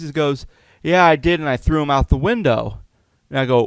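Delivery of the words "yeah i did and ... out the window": imitating a roommate's breezy admission, raised pitch; mock-casual owning up, louder at the start; taunting roommate. Roommate owns up to the prank, lightly taunting.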